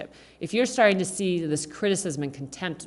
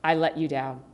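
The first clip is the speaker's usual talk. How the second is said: sincere apology; 4 semitones lower than usual. Shown as a demonstration. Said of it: "Instead of simply saying".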